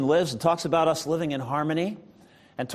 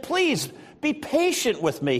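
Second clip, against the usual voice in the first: mild begging; 6 semitones higher than usual. A narrator's reading. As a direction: read as an understated entreaty. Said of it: "he begged".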